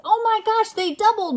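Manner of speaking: high pretend amazement; mock amazement. Parent reacting to growing dots, amazed. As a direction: act amazed.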